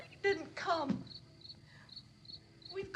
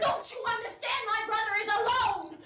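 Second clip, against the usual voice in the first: higher, urgent, near tears; desperate protest; 5 semitones higher than usual. Acted. Barbara protesting to the stranger about her brother, desperate. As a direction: make him understand, pleading hard.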